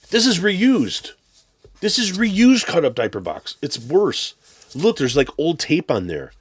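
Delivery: high, loud mock indignation; mock JP rant. Vlogger mocking the seller's reused diaper box, high and loud. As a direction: whine it like the outraged buyer. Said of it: "that's my J P impression".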